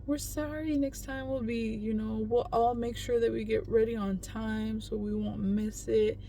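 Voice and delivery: a hint of a small girl apologising softly; voicing her daughter. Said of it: "my daughter's like".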